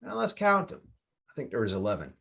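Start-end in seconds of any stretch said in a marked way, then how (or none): 0.0-0.8 much higher, eager pointing-out; excited call. Retold or imitated. Pointing out the crows to his workers, high excited call. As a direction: call the workers over, thrilled. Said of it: "I said to the, the workers".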